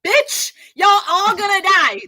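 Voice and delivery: high, fast, loud mocking screech. Mocking a doomed woman's last words, loud and shrill. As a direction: shriek her last words in a mock panic.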